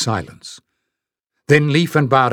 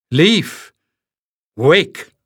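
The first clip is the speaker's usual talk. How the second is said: piercing call, higher and louder; sharp command; 4 semitones higher, 3 dB louder than usual. Acted. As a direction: snap him out of his trance. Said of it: "she commanded".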